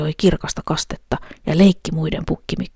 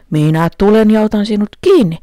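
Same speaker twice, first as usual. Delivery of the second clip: troll threatens; 5 semitones higher, 7 dB louder than usual. A narrator's reading. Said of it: "sanoi peikko".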